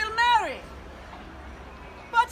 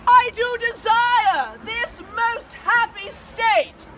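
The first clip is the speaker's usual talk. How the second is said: warm regal boom. Acted. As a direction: proclaim it to the crowd like a queen. Queen addresses her subjects.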